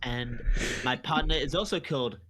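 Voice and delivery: halting mock-French English; hesitant, put-on French accent. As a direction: grope for each word as a pretend Frenchman. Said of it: "say that in a French accent".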